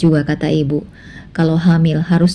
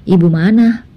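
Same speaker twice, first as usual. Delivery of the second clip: Anissa in a higher voice, confused and pressing; a young wife asking her husband in disbelief; puzzled Anissa; 3 semitones higher, 4 dB louder than usual. Acted. Anissa's voice in the story. (Anissa bingung, suara lebih tinggi)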